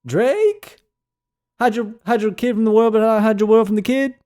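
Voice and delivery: high shouted rapper impression. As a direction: call out the name high and stretched like a rapper. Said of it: "He's like".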